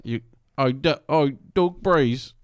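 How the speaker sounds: lightly attempted Australian accent; Australian kid accent. Imitating the kid hailing a player, Australian accent. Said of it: "he was this Australian kid".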